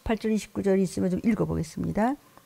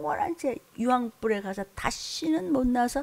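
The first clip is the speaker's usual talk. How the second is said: crying out; 2 semitones higher than usual. Acted. 격한 감정의 설교.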